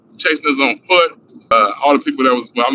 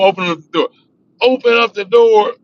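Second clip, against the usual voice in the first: high shouted open up the door; police demand; 9 semitones higher, 4 dB louder than usual. Retold or imitated. Cop shouting through the door to open up.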